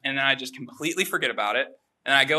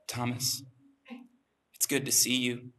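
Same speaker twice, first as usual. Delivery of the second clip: a touch softer, gentle greeting; 3 semitones lower, 7 dB quieter than usual. Retold or imitated. Kind professor greets his late TA, softly spoken. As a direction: greet him softly, lightly imitating the professor. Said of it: "he has a very soft voice".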